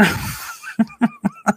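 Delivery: high giggling burst; a giddy giggle escaping. Real, not acted. Giggling at her own gloating to viewers.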